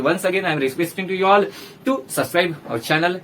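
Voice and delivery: slow, deliberate appeal to subscribe; slow request. Real, not acted. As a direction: ask them kindly and slowly. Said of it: "requesting subscribers". (धीरे-धीरे विनती करते हुए)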